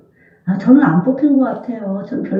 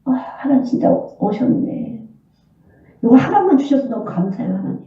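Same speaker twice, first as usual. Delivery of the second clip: mild amazed gratitude; grateful surprise; 3 semitones higher than usual. Retold or imitated. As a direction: gasp it out in awe. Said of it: "이러고 일어나려고 하는데".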